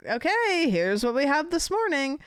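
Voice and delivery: high, bright-started host announcing the menu; playful chef voice for the dog; Italian chef. Retold or imitated. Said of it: "as if I'm like an Italian chef".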